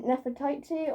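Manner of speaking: first try at Nefertiti, ending "tie-tee"; trying a pronunciation. Shown as a demonstration. Vlogger guessing how Nefertiti is said, "tie-tee" ending. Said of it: "I don't know how to pronounce it".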